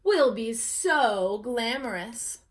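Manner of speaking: slow, drawn-out dreamy hens. Acted. Hens dream of glamour, slow and drawn out. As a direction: savour every word.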